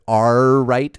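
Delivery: pirate "Arr right", rolled R. Shown as a demonstration. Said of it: "I almost started the episode with".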